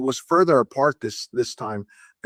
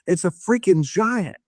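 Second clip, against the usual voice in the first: higher-pitched mild mock yell of amazement; retold yell; 6 semitones higher than usual. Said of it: "he yelled".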